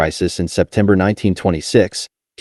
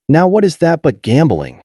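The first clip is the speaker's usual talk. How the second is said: exclaimed question; 6 semitones higher than usual. A narrator's reading. Senator exclaims about his fallen stock, indignant. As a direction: fling the question out in disbelief. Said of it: "he exclaimed".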